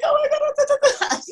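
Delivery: high, slow laughing disbelief; a stretched, giddy gasp of disbelief; stunned oh my God. Retold or imitated. Wrestler recalling the final seconds, slow high laughing disbelief. Retold reaction at match end.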